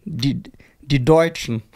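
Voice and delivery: slow, drawn-out American accent on German words. Shown as a demonstration. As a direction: say Deutschen like an American announcer. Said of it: "Mit so einem amerikanischen Akzent".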